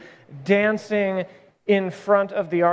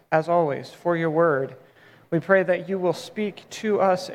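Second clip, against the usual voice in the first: measured, slightly lowered praying voice; prayer; 3 semitones lower than usual. Real, not acted. Pastor giving thanks to God for the word, prayerful. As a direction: lead a prayer, settling lower at the close.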